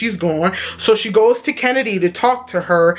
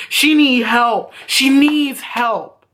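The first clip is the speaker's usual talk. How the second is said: slow, drawn-out plea for help; emphatic plea; 2 semitones higher, much slower than usual. Retold or imitated. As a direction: stretch it out so it sinks in. Voices friend pleading for help.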